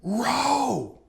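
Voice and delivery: high shouted one-word order; screamed command. Retold or imitated. Guide yelling at the father in the raft, high shout. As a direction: yell at the paddlers to keep going. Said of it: "the guide screamed".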